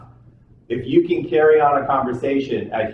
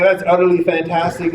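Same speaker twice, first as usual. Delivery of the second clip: higher-pitched, lightly acted marvelling; mock wonder; 4 semitones higher than usual. Scientist marvelling to the talking cow, mock wonder. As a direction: play the impressed scientist, pitch raised.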